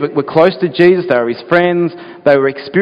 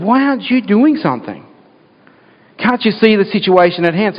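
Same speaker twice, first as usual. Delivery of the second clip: mild mock fuming; 7 semitones higher than usual. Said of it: "they're venting and they're fuming".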